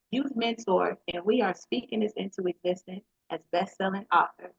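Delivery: smooth podcast host intro; guest intro read. Acted.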